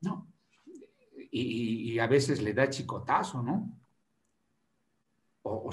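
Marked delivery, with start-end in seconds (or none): 0.0-0.3 scolding mother. Retold or imitated. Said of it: "la mamá va a decir".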